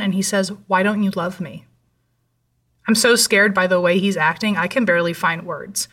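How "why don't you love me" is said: understated serious question at an even pace; serious retold question. Ex-boyfriend turns serious and questions her love, sober and restrained. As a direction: ask it soberly, without raising the voice. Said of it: "his face goes serious again".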